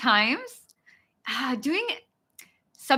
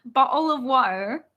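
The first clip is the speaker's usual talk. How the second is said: attempted British accent. Shown as a demonstration. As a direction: have a go at British. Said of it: "Okay, British. The only thing I can try".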